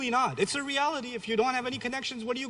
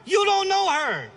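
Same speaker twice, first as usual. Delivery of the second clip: louder and higher, cutting them off; loud retort; 9 semitones higher, 6 dB louder than usual. Real, not acted. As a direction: shoot back hard at the parents. Retorting to insistent parents.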